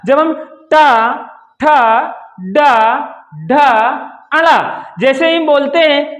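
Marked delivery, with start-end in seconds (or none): 0.7-4.8 "ठा, डा" stretched slowly with the tongue curled back; retroflex demo. Shown as a demonstration. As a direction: curl the tongue up and draw out "टा", "ठा", "डा". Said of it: "तो देखते हैं". (मूर्धा से धीमा उच्चारण)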